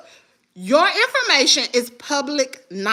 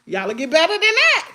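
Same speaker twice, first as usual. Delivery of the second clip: retelling her reaction to Peach, exasperated and higher; incredulous; 5 semitones higher than usual. Retold or imitated. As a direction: drag out the shock. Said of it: "so I'm like".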